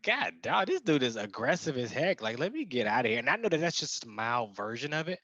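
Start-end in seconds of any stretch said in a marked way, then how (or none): 0.0-3.2 wanting to get away from a hostile man; uneasy bystander eager to leave; alarmed aside. Retold or imitated. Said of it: "I was like".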